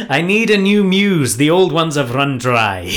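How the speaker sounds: put-on Scottish accent as the poet; bad Scottish accent. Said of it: "my accent might be terribly offensive".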